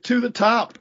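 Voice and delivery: high, chanted mock rally call; retold team cheer. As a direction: call out the school cheer playfully. Team cheer exchanged with fan.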